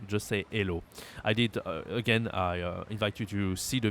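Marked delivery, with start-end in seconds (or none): 0.5-0.8 "hello" as "ello"; silent h. Shown as a demonstration. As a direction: say "hello" simply, without the h. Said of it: "You don't have to say anything".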